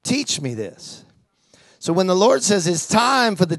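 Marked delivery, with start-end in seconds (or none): 0.0-1.0 humble prayer. Retold or imitated. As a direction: ask God quietly, like a student. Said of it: "and I go".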